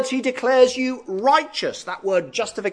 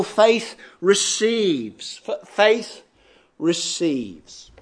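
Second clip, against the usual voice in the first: faith receives drawn out slowly, each word weighted; slow emphatic heading; 2 semitones lower, much slower than usual. Shown as a demonstration. Preacher announcing his first heading to the congregation, slow and deliberate. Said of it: "So first of all".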